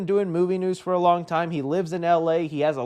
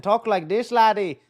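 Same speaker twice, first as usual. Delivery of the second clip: rough, higher-pitched attempt at an Irish accent; 4 semitones higher than usual. Shown as a demonstration. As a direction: try a mock Irish lilt. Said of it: "gave himself an Irish accent".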